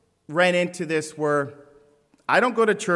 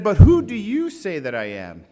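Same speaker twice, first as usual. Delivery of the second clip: Jesus asking; 3 semitones higher, 7 dB louder than usual. Acted. Preacher voices Jesus' question.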